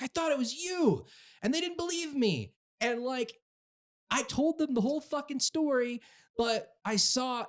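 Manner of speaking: high-pitched, pleading mock protest; imitated protest. Friend explains his arrest afterwards, high-pitched mock protest.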